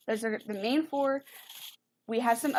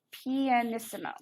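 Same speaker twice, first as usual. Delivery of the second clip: pianissimo in plainly American English; very American accent. Real, not acted. Teacher naming the Italian term, very American accent. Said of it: "I said it very American".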